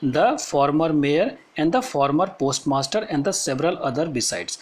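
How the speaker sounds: slow, deliberate classroom reading; measured textbook reading with pauses; read-aloud text. Acted. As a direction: read it out phrase by phrase for students. Reads the story text aloud.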